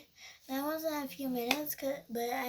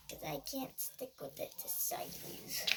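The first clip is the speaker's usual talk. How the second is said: whispering; 8 dB quieter than usual. Real, not acted. Whispered aside while moving.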